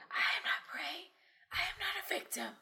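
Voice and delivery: breathy whispered mantra; whispering. Acted. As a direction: whisper it to yourself. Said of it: "You whisper".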